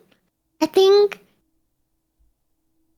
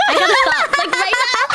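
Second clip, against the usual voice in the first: laughing; 11 semitones higher than usual. Retold or imitated. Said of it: "I was like".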